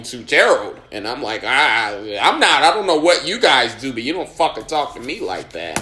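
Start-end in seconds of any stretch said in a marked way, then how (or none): 1.4-5.8 louder, heated retelling of the outburst; going off. Retold or imitated. Comic telling off the stingy club owner, heated. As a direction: tell him off, pitch up. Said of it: "I'm just start going off".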